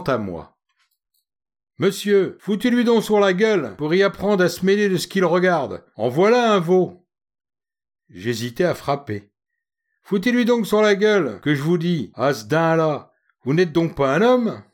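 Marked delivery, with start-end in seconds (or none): 1.8-7.1 put-on higher, hoarse Paris street girl snapping back; a faubourg girl flaring up, higher; indignant street girl with a hoarse edge; hoarse working-class girl. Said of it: "d'une voix enrouée et faubourienne". 10.0-14.6 put-on higher, hoarse Paris street girl snapping back; a faubourg girl flaring up, higher; indignant street girl with a hoarse edge; hoarse working-class girl. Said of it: "d'une voix enrouée et faubourienne".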